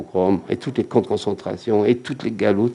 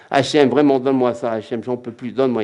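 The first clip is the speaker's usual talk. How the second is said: demanding prayer. Acted. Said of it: "il prie, par exemple, il dit".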